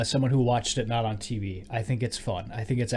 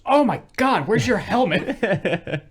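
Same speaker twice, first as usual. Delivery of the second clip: high, loud, very slow shocked gasp of a question; hammed-up astonished crowd, much higher and louder; mock shocked; 9 semitones higher, 6 dB louder, much slower than usual. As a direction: ham up everyone's disbelief, drawn out. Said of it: "And everyone goes".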